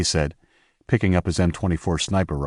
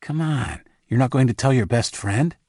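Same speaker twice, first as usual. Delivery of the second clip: playful coaxing, voice a bit higher; teasing friend; 6 semitones higher than usual. A narrator's reading. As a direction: nudge him for the secret. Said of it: "Isaac's shoulder bumped him".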